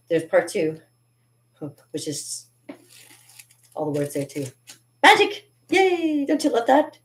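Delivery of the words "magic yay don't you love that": excited cheer. Real, not acted. Cheering his found Monty Python scripts.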